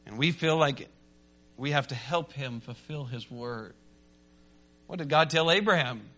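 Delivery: ordinary delivery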